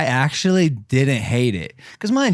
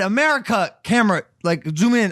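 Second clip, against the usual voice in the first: mock stage address; 5 semitones higher than usual. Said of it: "And then I said".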